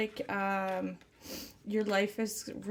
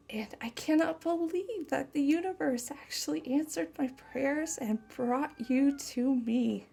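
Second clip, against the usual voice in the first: tender channeled lover. Acted. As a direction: speak as if to the one you love, gently. Channels partner's loving message.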